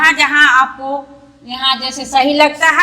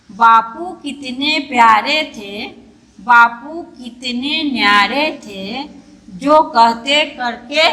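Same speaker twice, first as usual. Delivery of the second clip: slow poem recital. Shown as a demonstration. Teacher to pupils, showing how to read the poem, slow recital. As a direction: read the poem line by line, slowly. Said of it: "धीरे धीरे पढ़ेंगे और अच्छा से जैसे कविता बोला जाता है".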